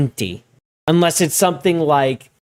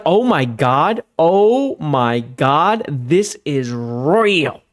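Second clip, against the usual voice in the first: retold shock; much slower than usual. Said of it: "And I was like".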